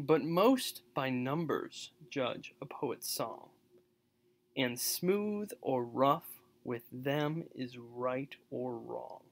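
slow, deliberate verse reading; measured recitation of verse; poem reading. Shown as a demonstration. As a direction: read the couplet aloud slowly. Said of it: "so I'll read this and sort of interpret".

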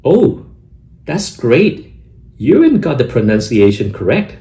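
exaggerated impressed compliment; slow, drawn-out mock admiration; effusive praise. Answering a stranger's ni hao in America, effusively impressed.

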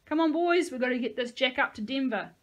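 loud, high rallying yell; rowdy yell. A narrator's reading. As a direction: whip up the gang. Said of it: "Peyton yelled".

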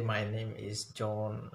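slow, careful demo of the phrase not to use; slow wrong example. Shown as a demonstration. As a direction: spell out the wrong English-style intro slowly. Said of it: "you do not need to say".

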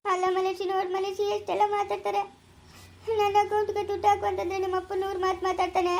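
tearful whining. Acted. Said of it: "ಯಾಕೆ ಅಳ್ತೀಯ?".

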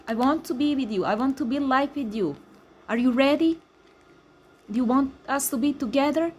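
lightly acted eager pledge, pitched a little up; imagined lover's declaration. Partner asking to build a life together, mildly eager. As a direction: voice a keen suitor's plea, half-acted. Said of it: "They're gonna say to you".

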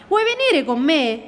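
lightly voiced friendly invitation; eager invitation. Porcospino invites Ranocchio along, eager.

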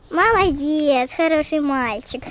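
slow, drawn-out praise for a dog; squeaky praising a dog. Real, not acted. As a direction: stretch the praise out to reward him. Praising dog after command.

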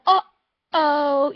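"Uh oh" with a catch in the throat between the words; glottal stop. Shown as a demonstration. Teaching viewers the glottal stop, "Uh oh" cut in the middle. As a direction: break "Uh oh" sharply in the middle. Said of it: "hear the sound in the middle".

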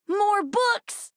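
high, delighted exclamation; gleeful cheer; excited. Acted. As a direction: burst out with glee. Delighted answer to own question.

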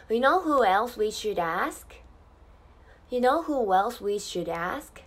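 slow Australian accent, rising question; measured Australian pronunciation for learners; Australian English model. Shown as a demonstration. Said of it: "オーストラリア英語の発音ポイント".

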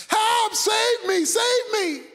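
high pleading shouts; desperate cries. Acted. Man clinging to a branch begging heaven, panicked shouting. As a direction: beg to be saved at the top of your voice.

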